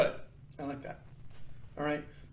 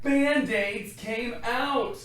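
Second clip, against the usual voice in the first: surprised reveal; 7 semitones higher, 8 dB louder, much slower than usual. A narrator's reading.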